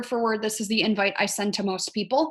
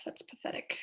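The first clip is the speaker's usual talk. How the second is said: whispered aside; 17 dB quieter than usual. Real, not acted. Self-mocking aside under breath.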